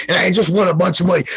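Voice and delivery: rattled off fast, still at normal pitch; fast excited brag. Retold or imitated. Bragging live on Brosco's stream, fast excited blurt. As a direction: blurt the win out quickly. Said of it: "I went nuts".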